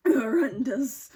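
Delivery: breathy whispered verdict, slow. Real, not acted. Looking back on an awful shift, slow whisper. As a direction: drag the word out in a whisper.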